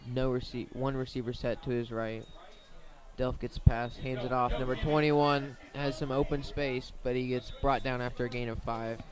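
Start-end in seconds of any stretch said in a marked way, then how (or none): 3.2-9.0 louder, rising energy as the runner finds space; excited call. Real, not acted. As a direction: build the call as he breaks free. Run breaks into open space.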